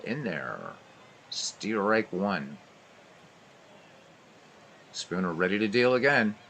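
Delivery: brisk radio ballgame call; live baseball commentary voice; play-by-play. Acted. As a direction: call every pitch like a radio announcer.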